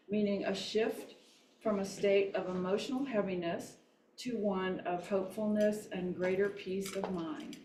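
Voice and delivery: measured reading of a mission statement; formal read-aloud. Acted. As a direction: read it out evenly, phrase by phrase.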